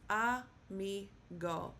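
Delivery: "amigo" slowly, syllable by syllable, a-MI-go; stress on second-to-last syllable. Shown as a demonstration. Teacher breaking down three syllables, slow "amigo" stressed on MI. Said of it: "stress is on the second to last".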